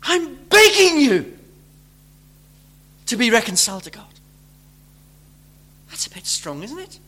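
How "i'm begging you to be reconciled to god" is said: begging plea. Retold or imitated. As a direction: beg them as if on your knees. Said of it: "here's this same word".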